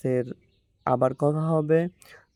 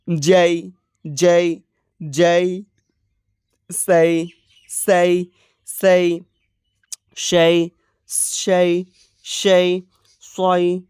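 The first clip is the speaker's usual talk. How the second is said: teacher's rote syllable drill, evenly pitched; brisk pronunciation drill; 3 semitones higher, 4 dB louder, much slower than usual. Shown as a demonstration. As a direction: sound out each syllable in steady, level repeats. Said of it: "একটু fast করতেছি".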